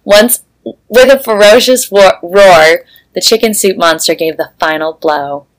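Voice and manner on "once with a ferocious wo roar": reading through giggles; laughing. Real, not acted. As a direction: fight the laughter while reading.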